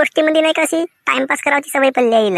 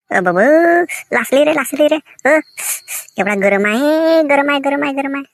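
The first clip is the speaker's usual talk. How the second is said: hammed-up burnt-finger reaction; acted pain yelp. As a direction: yelp as if you touched a hot pot. Husband burns finger on hot pot.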